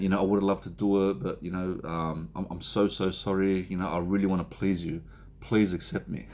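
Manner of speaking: mildly acted people-pleaser, rambling excuses; over-apologetic. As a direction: run on apologizing, eager to be accepted. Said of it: "that's how you come across".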